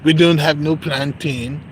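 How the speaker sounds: slow mock British-Nigerian accent. Server refusing an order, mock British-Nigerian accent. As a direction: draw it out with a put-on British-Nigerian lilt. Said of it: "Like a British and Nigerian".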